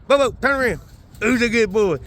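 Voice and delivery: high sing-song dog praise; squeaky praising a dog. Real, not acted. Cooing at his dog.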